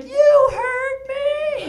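high, loud, very slow threat; slow loud high defiant sheep. Pretend. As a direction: spell it out, daring him. Sheep's defiant final line.

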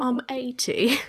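slow put-on granny voice; British grandmother. Friend playing a British grandmother, slow and hammy. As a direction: drag it out like a mock old lady. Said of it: "Like, like a grandmother".

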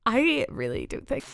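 giggly Dundee accent attempt, breaking up. Shown as a demonstration. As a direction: try a Dundee accent, laughing through it. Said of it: "do your best Dundee accent".

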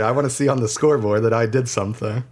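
high-pitched, whiny complaint; frustrated gamer. Retold or imitated. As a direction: complain like a cheated player. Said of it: "where you're like".

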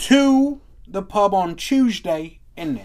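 slow, exaggerated British accent; mock British accent. Host relishing the British phrase, exaggerated British accent. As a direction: draw out a British "Chewsday, innit". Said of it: "Like, they could be like".

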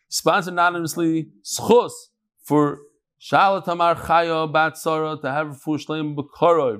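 even, level-toned dedication read; measured announcement on a nearly level pitch; sponsor announcement. Real, not acted. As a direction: read out the sponsors and blessings in a steady recitation.

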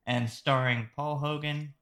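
put-on lightly Australian-accented names; a hint of Aussie on the film credits. Host reading the film credits with a hint of Australian accent. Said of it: "I tried to use a bit of an Australian accent there to pronounce those names".

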